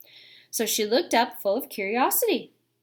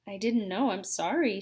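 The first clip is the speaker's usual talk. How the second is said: humbly; 4 dB quieter than usual. Acted. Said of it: "said Polly humbly".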